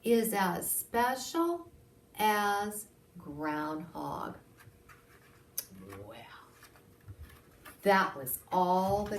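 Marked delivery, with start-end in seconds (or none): 0.0-4.4 slow, drawn-out grand finish; dramatic pause. Acted. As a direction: linger on "as Groundhog" for effect.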